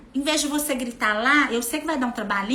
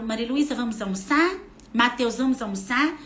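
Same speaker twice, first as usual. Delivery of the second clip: calm invitation. Shown as a demonstration. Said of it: "Eu venho até eles e falo".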